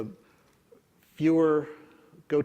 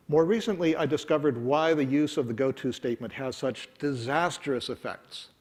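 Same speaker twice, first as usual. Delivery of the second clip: read-aloud quote; 2 semitones higher than usual. Shown as a demonstration. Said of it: "read it with my funny accent".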